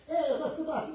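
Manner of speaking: high, loud, laughing hello from the husband; cheery husband greeting. Retold or imitated. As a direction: bounce in as a jolly passing husband.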